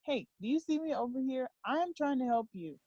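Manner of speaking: a hint of an exasperated parent, insistent and emphatic; lightly acted scolding, stressing each repeated offer; God. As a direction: imitate someone trying to get a stubborn child's attention. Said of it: "when he talks to me, he's like".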